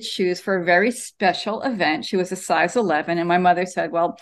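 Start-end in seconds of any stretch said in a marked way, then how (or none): 3.9-4.2 put-on Jersey accent. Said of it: "in her Jersey accent".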